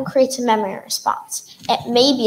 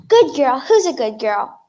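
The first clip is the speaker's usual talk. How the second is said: dog praise voice. Acted.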